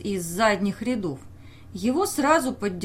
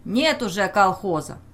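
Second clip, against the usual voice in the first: gloating; 4 dB louder than usual. Acted. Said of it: "Кто-то возразил злорадно".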